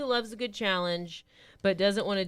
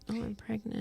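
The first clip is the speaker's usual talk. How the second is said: mock pitiful plea; 4 semitones higher, 13 dB quieter than usual. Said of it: "play that sympathy card, like".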